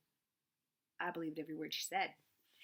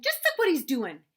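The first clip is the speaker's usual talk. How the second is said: high, loud excited shout; 9 semitones higher, 11 dB louder than usual. A narrator's reading. Little sister calling Mama to look at Gandy, loud high shout. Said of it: "Daisy shouted".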